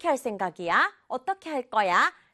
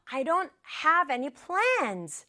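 slow, understated mock exasperation; a touch of pent-up frustration, stretched out; mild frustrated outburst; 3 semitones higher, much slower than usual. Teacher quotes the exasperated boy, mildly frustrated outburst. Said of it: "막 자기도 답답하니까 이렇게 소리를 질러버렸어요".

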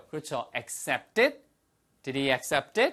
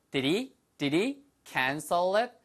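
quicker, words run together; fast linked version; 3 semitones higher, much slower than usual. Shown as a demonstration. Teacher showing how it sounds said quickly, fast linked version. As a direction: link it up as in quick speech. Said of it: "빨리 하니까".

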